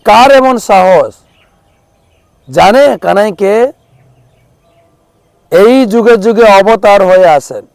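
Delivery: high, loud enraged outburst; furious shout. Acted. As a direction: Balaram roaring at whoever tied his brother. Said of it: "চিৎকার করছেন". (রাগে চিৎকার)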